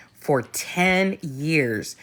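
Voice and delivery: slow emphatic whisper. Real, not acted. Stressing to the host how long, slow whisper. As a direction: drop to a slow whisper for weight.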